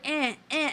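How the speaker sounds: little put-on "eh" grunts; imitated effort grunts. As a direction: imitate a masseuse grunting with each push. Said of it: "She's like".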